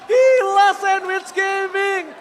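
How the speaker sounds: fighting game announcer. Real, not acted. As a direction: roar it out slowly. Hype call of second fight.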